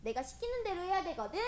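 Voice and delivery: high, hurried mock scolding; petulant acted quarrel; acted bossy temper. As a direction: argue back crossly, insisting on your own way. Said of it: "이렇게 해요".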